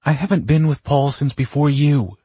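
high, loud, indignant yell; angry yell. A narrator's reading. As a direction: yell it back in a quarrel. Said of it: "she yelled".

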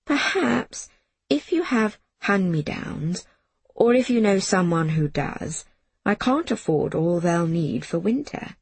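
halting, unsure request; hesitant. Acted. Miss Smith hesitantly asking the Iron Woman for clothes. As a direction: ask awkwardly, pausing between pieces.

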